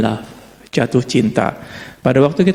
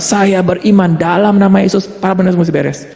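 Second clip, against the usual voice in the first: mock loud declaration; 4 semitones higher than usual. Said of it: "mengguncang-guncangkan surga".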